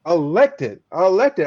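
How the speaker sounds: "elected" drawn out slowly, then repeated; emphatic stress on "elected". Real, not acted. Speaker underlines who the woman was, emphatic stress on "elected". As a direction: lean hard on "elected" and say it twice. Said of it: "I wanna put emphasis on this".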